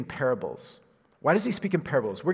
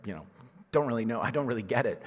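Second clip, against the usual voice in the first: indifferent listener; 4 semitones lower, faster than usual. Acted. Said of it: "those who don't wanna hear are like".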